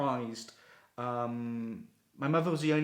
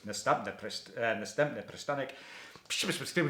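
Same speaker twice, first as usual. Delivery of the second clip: tram announcement. Retold or imitated. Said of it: "the tram goes".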